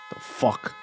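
breathy unvoiced "the fuck"; whispered aside. Real, not acted. Muttering to himself about the Texas rants. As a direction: mutter it under your breath.

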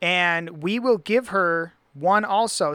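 slow, spelled-out reading of a verse; emphatic scripture reading. Acted. Reader correcting a friend from the verse, slow emphatic reading. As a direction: read it out deliberately to prove the point.

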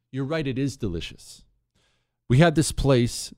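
normal talking voice

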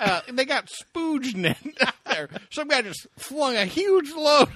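high, slow joking voice; high silly voice. Pretend. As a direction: draw it out up high.

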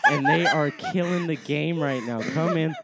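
hyped sales hustle; mlm recruiter pitch. Pretend. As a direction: close the deal like a hustler. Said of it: "give me a pitch on slippers".

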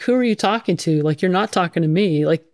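half-amused who, me; retelling her surprise at being singled out, lightly incredulous; mock disbelief. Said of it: "I look behind me like".

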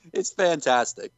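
usual speaking voice

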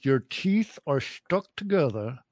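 lightly demonstrated Long Island lockjaw accent; a touch of clenched-teeth Long Island lockjaw. Shown as a demonstration. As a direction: talk as if your teeth are stuck together, Long Island lockjaw. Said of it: "which is called the Long Island Lockjaw".

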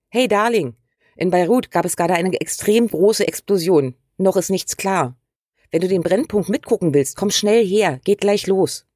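aufgeregter Zuruf. Pretend. Ruft Partner in der Küche zu.

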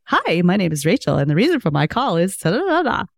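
mock a phony cold-call pitch; fake sales voice. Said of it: "in this made up voice like".

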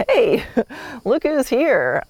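high, laughing hello to a horse; cheery greeting. Acted. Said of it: "walking in the barn and going".

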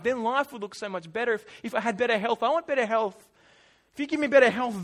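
mildly whiny, insistent wishing; lightly acted envious whine; whining inner voice. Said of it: "the whining little Israelite voice, the one that's inside you and me".

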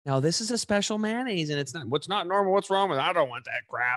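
high, mock-indignant old dad voice. Son mimics his dad refusing special mayonnaise, high mock whine. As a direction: whine it like a fussy father. Imitating dad's reaction.

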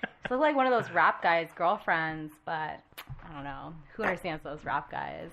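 put-on valley girl intro of a song. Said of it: "I like big butts".

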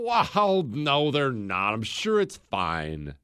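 dismissive FDR mock. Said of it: "And F D R's all".

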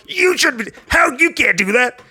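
very high mock scolding; exaggerated objector squawk; generic objector voice. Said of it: "you're the generic voice of everybody".

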